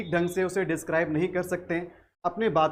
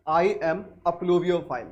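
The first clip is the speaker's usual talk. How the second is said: slow example sentence; much slower than usual. Shown as a demonstration. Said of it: "तो हम कह सकते हैं".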